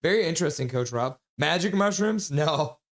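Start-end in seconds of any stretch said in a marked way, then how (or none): 1.4-2.3 magic mushrooms asked with a high rising lilt; surprised question. Real, not acted. Chat asks about the pizza, rising surprise on "Magic mushrooms?". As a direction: raise the pitch on "Magic mushrooms?" like a startled question. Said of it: "I don't think they're having mash-, magic mushrooms".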